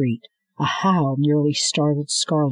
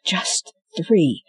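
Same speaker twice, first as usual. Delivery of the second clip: panting; 3 semitones higher than usual. Acted. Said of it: "the girl panted".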